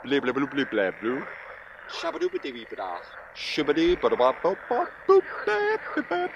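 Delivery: nonsense words. Acted. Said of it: "I know words like".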